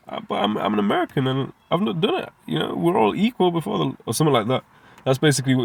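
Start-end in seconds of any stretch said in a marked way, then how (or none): 0.1-4.0 mock protest. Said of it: "you can use that".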